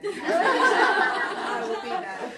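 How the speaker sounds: slow, high, laughing punchline. Real, not acted. Speaker to parents about holidays, laughing. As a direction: deliver it through laughter.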